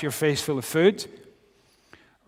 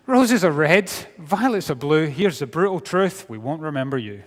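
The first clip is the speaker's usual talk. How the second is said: mock valentine verse; 3 dB louder than usual. Mock Valentine's card poem.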